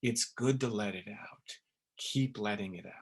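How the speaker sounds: soft, tender comfort to someone crying; quiet, gentle encouragement to keep crying. Acted. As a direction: hold them with your voice, quietly. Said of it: "to comfort them and say".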